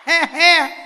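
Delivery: big ringing ha ha laughs, high and loud; hearty demo laugh. Shown as a demonstration. Monk leading the hall in laughter, hearty laugh. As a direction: lead the crowd in full-throated laughter. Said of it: "Nghe này nghe".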